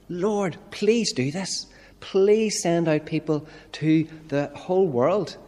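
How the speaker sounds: slow, pleading ask to the Lord; begging prayer. Acted. Preacher voicing a prayer, slow and pleading. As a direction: beg God slowly, cap in hand. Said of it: "asking Him and begging Him".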